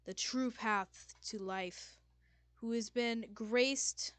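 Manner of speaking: slow, loud, grand god voice; booming voice. Acted. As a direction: boom it out like a deity. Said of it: "It's a big booming voice".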